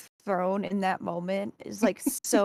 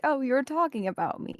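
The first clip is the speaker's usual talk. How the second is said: mild mock excitement, pitched higher; retold excitement; 5 semitones higher than usual. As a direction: imitate someone pleasantly excited at being recognised. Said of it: "excitement of".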